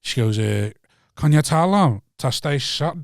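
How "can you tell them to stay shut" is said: slow, botched attempt at Scottish; halting mock Scottish accent; bad Scottish accent. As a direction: imitate her Scottish accent, badly and slowly. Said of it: "I can't do accents".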